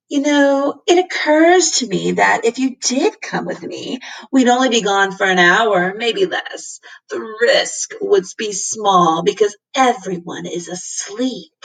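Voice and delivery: a hint of a fussy cat; coaxing cat, lightly done; splinter cat voice. Cat speaks, voiced character.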